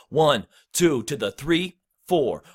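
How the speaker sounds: "one", "two", "three", "four" on the beat, "to the" only before "three"; on-beat count with gaps. Shown as a demonstration. Coach varies the count in the pocket, stressed numbers with gaps. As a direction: leave space after "one", slip "to the" quickly before "three". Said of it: "So you can say".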